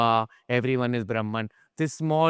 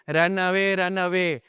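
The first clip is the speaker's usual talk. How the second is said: mild mock yell; 5 semitones higher than usual. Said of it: "is screaming".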